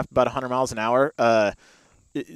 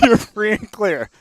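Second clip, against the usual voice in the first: urgent inner voice; 6 semitones higher, 6 dB louder, slower than usual. Retold or imitated. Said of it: "I was just like".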